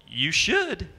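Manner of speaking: mock Southern twang on two words; bad Southern accent. A hint of Southern accent as Max Baer answers. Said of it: "That was ba-, bad Southern accent".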